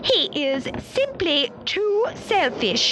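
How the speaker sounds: autumn, disapproving. A narrator's reading. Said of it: "she said".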